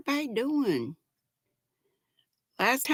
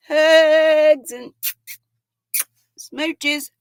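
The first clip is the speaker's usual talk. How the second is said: loud, higher hugs; mock gush; 6 semitones higher, 7 dB louder, much slower than usual. Reading viewer's sweet comment.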